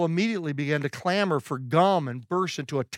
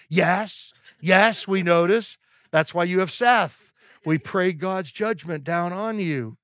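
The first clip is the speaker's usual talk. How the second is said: louder, slow, teasing triumph; mock gloating; 2 semitones higher, 4 dB louder, slower than usual. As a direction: rub it in playfully. Gloating reply to humbled friends.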